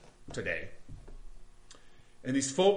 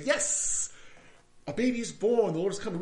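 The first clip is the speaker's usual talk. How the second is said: light festive cheer; 5 semitones higher than usual. Retold or imitated. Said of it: "just say".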